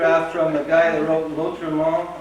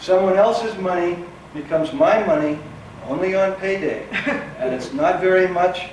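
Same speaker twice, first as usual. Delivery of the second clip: emphatic, rhythmic spoken-word delivery; poetry reading. Acted. Poet performing a work poem for an audience, emphatic reading. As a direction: punch each phrase, letting it fall at the end.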